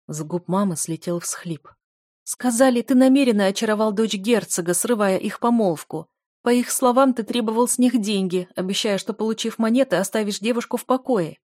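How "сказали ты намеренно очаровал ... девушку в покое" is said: put-on higher, louder distressed old mother; a frightened mother blurting out the slander; tearful mother voice, raised and anxious; upset mother.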